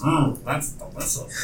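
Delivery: slow squeaky lizard chatter; kobold voice. Acted. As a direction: savour it like a yappy kobold. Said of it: "Say it in your kobold voice".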